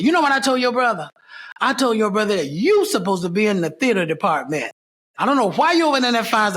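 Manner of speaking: lightly voiced department head. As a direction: lightly act out an insistent professor's challenge. Acted quote of drama department head.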